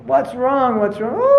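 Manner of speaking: high, loud sobbed question with a wail; joke-telling mock sobs; hammed-up crying. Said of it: "he was crying".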